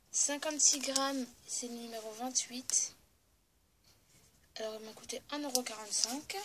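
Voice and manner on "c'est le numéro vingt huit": unvoiced whisper; whispered label detail; whispered aside. Real, not acted. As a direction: read the number under your breath. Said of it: "je chuchote un peu".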